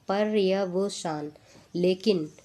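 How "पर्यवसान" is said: slow पर्यवसान, split "par-ya-va-saan"; spelling-out dictation. Shown as a demonstration. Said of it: "ऐसे लिखा जाएगा".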